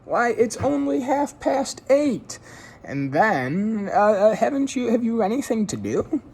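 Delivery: high, loud mock-astonished chorus; protesting family. A narrator's reading. Family insisting Jones stay, high and loud. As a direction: act shocked he'd leave so early.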